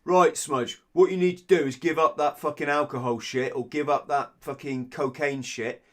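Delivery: hammed-up know-it-all laying down the law; imitating a pushy helper ordering him to quit; bossy lecturer. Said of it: "not someone that goes".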